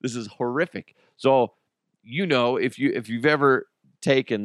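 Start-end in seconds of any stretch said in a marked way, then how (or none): 0.0-1.0 much softer, tense whisper-like; hushed panic. Retold or imitated. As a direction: say it under your breath. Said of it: "I'm like".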